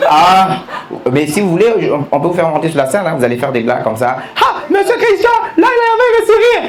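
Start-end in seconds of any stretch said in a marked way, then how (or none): 4.4-6.6 high, loud mocking call to the crowd; loud teasing. Real, not acted. Teasing the man in the crowd, loud and laughing. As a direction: tease him out loud, laughing. Teasing an audience member loudly.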